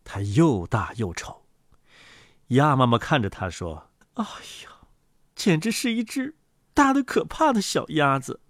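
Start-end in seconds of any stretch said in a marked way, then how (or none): 4.1-8.4 gasp, then high-pitched dismay; high, astonished duck mother; startled mother duck. Acted. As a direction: exclaim high, taken aback by the chick. Mother duck startled by ugly chick.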